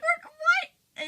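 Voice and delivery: high, loud squeak of disbelief; shocked disbelief. Retold or imitated. Friends reacting to Allison's cruel prank, stunned. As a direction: blurt it out, stunned.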